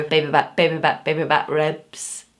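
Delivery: put-on playful Scottish film-villain accent. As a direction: chant it in a mock Scottish accent. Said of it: "I can do the accent".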